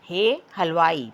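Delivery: slow हे हलवाई with हे stressed; teacher reading हे हलवाई slowly for children; slow model reading. Shown as a demonstration. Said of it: "मेरे साथ पढ़ें".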